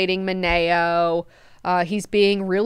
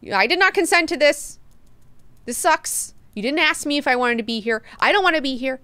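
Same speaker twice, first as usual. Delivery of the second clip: higher-pitched mock protest; indignant complaint; 6 semitones higher than usual. Duncan accusing Leto over his resurrection, indignant. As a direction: play an aggrieved accuser, voice pushed up.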